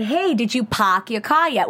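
slow, lightly imitated Boston accent; a hint of a thick Boston accent, drawn out; mock Boston accent asking about the car. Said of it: "with that strong, strong, distinct Boston accent".

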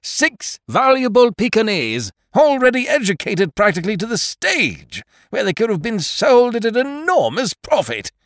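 very high and loud, spitting out Gone; enraged tenant berating the landlord; furious rant. A narrator's reading. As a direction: at full outrage over his stolen fortune. Angry tenant rants about lost dogs.

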